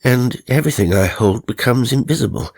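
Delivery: wondering aloud, bemused and curious; newly dead gentleman musing. Acted. A dead man puzzling over time to himself, lightly bemused.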